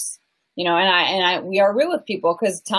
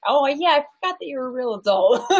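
higher, laughing teen impression; teenage student; 6 semitones higher than usual. Teenagers realizing she's an adult, higher amused mock voice. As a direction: imitate a teenager catching themselves, laughter in the voice. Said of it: "they think, like".

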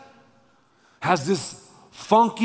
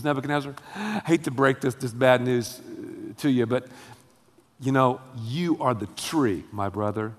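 low, soft, reluctant voice; hesitant bad-news delivery; 8 semitones lower, 6 dB quieter than usual. Daniel breaking bad news to the king, low and hesitant. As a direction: break it to him quietly, haltingly.

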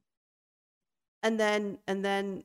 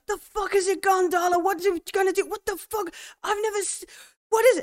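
high, loud, frantic; panicked yelling; 10 semitones higher, 5 dB louder, faster than usual. Acted. Farouk yelling at Darla as the creature passes, high panicked scream. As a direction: scream it out in terror, much higher.

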